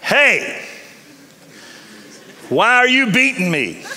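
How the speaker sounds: high, put-on donkey voice, hurt and puzzled; a wounded animal pleading with its master; lightly cartoonish donkey asking why; talking donkey. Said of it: "and the donkey says".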